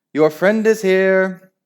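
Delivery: loud, high, slow bellow. Acted. Nick's dad calling upstairs to Nick, bellowing. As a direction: bellow it through the house. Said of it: "bellowed the cloak".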